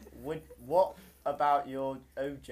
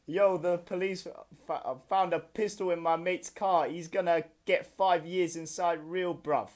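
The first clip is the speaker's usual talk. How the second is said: lightly done London roadman; hint of roadman slang delivery; london roadman accent. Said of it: "road man accent on?".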